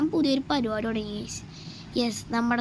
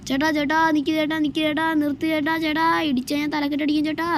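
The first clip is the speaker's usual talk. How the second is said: higher, louder shouts to stop someone; calling out loudly; 4 semitones higher, 5 dB louder than usual. Acted. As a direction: yell after him to stop. Stopping a cyclist to steal bike. (ഉറക്കെ വിളിച്ചു നിർത്തുന്ന ശബ്ദം)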